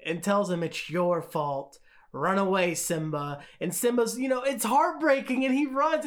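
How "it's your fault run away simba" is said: a hint of a cold uncle blaming a child; Scar. Scar telling Simba to run away, understated menace. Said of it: "when Scar has that one-on-one with Simba".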